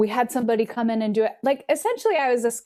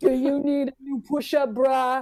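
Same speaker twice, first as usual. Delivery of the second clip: mock-aggressive, gravelly put-on voice; 3 semitones higher than usual. Recalling a lingerie shop ad, imitating its gravelly, aggressive voice. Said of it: "It was really gravelly and aggressive".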